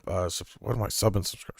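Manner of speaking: tipsy, fumbling words. Real, not acted. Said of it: "I'm a little tipsy".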